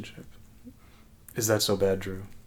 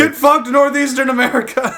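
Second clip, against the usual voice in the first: high, loud mock broadcast; imagined broadcaster; 12 semitones higher, 5 dB louder than usual. Broadcasters taunting a freezing region, mock announcer. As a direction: call it out as a hammed-up broadcaster. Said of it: "the broadcasters".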